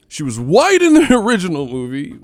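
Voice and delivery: high, loud indignant complainer voice; mock outrage. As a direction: parody a scandalized moviegoer at full squeal. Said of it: "Y'all be".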